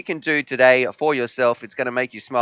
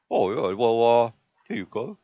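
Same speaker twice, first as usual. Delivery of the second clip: puppy voice; 3 semitones lower, 4 dB quieter than usual. Acted. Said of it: "I like how you imitate your puppy talking".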